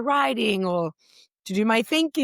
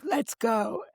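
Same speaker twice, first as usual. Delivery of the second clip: high, drawn-out, louder cheer; proud cheer; 10 semitones higher, 3 dB louder, much slower than usual. Retold or imitated. Imagining Shua cheering her on, proud high cheer.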